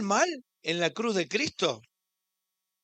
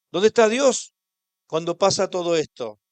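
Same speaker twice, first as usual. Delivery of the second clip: a raised, pleading question; forceful cry; 7 dB louder than usual. Acted. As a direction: cry it out to the congregation. Preacher repeats question with force.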